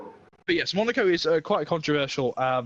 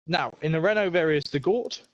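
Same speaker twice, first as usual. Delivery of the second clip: winded from running upstairs; breathless, catching breath between words. Real, not acted. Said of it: "Excuse me while I'm out of breath".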